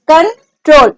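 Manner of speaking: कंट्रोल broken into कं and a stressed ट्रोल; stress on last syllable. Shown as a demonstration. Teacher points out where stress falls, stressed last syllable in कंट्रोल. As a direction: split कंट्रोल with a gap, leaning on ट्रोल. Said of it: "stress लग रहा है".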